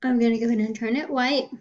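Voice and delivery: talking through a yawn; words stretched by a yawn. Real, not acted. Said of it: "Excuse me, I was yawning there".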